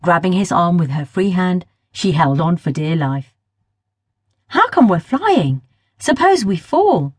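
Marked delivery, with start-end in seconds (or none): 4.5-7.1 slow, higher, a touch of mock terror; a lightly voiced frightened cry; scared shout. A narrator's reading. Girl flying over London crying out, mildly scared. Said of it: "she shouted in terror".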